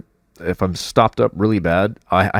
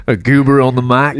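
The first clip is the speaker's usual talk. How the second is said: laughing; 5 semitones higher, 6 dB louder than usual. Real, not acted. Joking, laughing.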